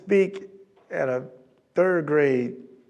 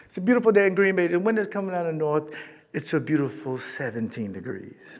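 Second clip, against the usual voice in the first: pilot announcement; 5 dB quieter than usual. Retold or imitated. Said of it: "This is the pilot talking".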